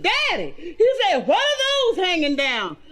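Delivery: put-on high, excited child's voice; high little boy asking his daddy. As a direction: squeak it like a curious little kid.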